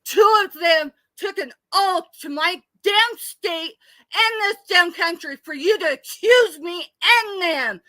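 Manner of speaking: sobbing shout at her accuser; real tearful scream. Real, not acted. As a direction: yell it through tears, furious. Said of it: "I'm sorry, I'm screaming".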